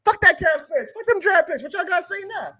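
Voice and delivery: mock gloating. Fan imagining taunting critics after a title, gloating. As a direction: rub it in the critics' faces. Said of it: "so we can be like".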